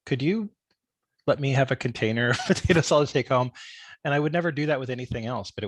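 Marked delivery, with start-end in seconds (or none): 0.0-3.5 higher, hesitant retold request; mock-timid plea, pitched up at the start; sheepish. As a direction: ask sheepishly, pausing after the first words. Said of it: "I would very sheepishly say".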